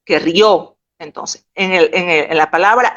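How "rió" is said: "rió" with the weight on the final ó; stress on the ó. Shown as a demonstration. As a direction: lean on the last vowel of "rió". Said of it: "Ojo, no confundamos".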